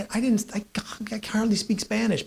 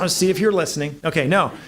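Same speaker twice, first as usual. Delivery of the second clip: laughing; 3 dB louder than usual. Real, not acted. Laughs at own joke.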